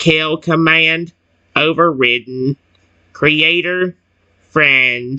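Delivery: very slow, drawn-out, mechanical robot voice. The robot finally speaks after its kill command is overridden: robot voice. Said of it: "I can do a good robot voice now".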